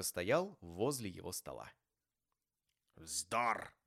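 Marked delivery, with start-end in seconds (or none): 3.0-3.7 grumbled curt dismissal; mutinous old grumbler's dismissal; grumbling. A narrator's reading. Scrooge brushing off his nephew's greeting, grumbling. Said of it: "проворчал Скрудж".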